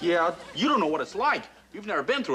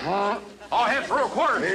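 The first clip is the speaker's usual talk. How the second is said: raised, pushed command voice; practiced order; 4 semitones higher than usual. Shown as a demonstration. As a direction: keep practicing the barked order. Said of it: "Put some belly behind it".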